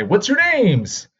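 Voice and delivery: high, slow call for names; principal asking. Retold or imitated. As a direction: call out over the gym. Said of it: "He's gonna make us say".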